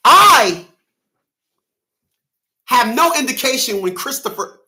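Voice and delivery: high mocking voice of the ex; a hint of a mocked woman's voice; mocking her. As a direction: lightly mimic her prissy reply. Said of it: "Here's what she said".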